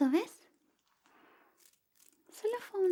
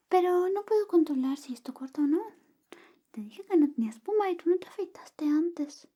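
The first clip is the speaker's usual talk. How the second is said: whisper. Acted. ASMR whisper roleplay.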